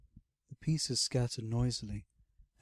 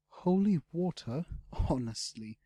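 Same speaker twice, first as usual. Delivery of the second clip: snorted; 5 semitones higher than usual. A narrator's reading. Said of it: "she snorted".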